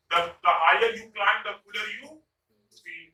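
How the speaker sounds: slow, even read of the sentence; slow example. Shown as a demonstration. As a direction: read the whole saying slowly. (धीमे से पूरा वाक्य)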